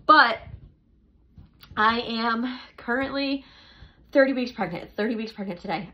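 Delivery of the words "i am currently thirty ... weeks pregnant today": breathless, winded speech; out of breath. Real, not acted. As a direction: talk while short of breath. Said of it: "I'm out of breath".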